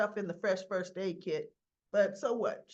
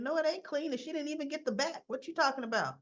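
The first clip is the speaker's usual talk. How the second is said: incredulous retort; 6 semitones higher, faster than usual. Retold or imitated. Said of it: "And I'm thinking".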